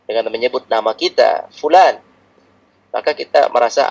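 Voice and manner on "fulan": put-on sharp, louder call of the child's name; angry father's call. Shown as a demonstration. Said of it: "ketika ayah sedang marah". (panggilan ayah yang sedang marah)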